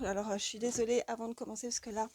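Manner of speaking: sniffly after tears of joy; stuffy voice before blowing nose; after crying. Real, not acted. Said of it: "je me mouche deux secondes".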